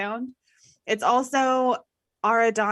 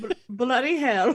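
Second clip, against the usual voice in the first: mock British. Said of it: "Doesn't have to be Basil Fawlty".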